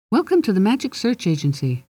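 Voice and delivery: high, squeaky little greeting; a nervous fairy trying to sound official, too high; squeaky fairy welcoming a human client. Acted. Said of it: "it might be better if it wasn't so squeaky".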